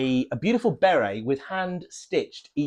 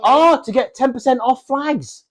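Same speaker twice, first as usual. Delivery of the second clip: put-on Southern American accent; 10 semitones higher, 6 dB louder than usual. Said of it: "Why are we doing a southern accent?".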